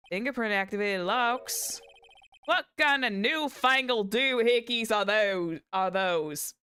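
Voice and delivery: baffled Southern cowboy, thick twang. Acted. Witness puzzled by fingerprint locks, Southern twang. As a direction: lean hard into the Southern twang. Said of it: "the moment I go into the southern twang".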